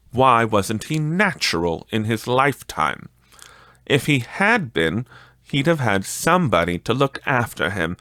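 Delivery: put-on a touch of a scornful old woman; lightly voiced charwoman. The charwoman scorning the dead miser, lightly voiced. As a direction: sneer at the dead man.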